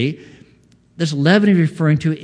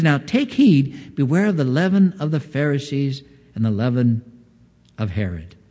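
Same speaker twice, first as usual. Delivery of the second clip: amazed warning. Retold or imitated. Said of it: "a sense of, of kind of amazement in his voice".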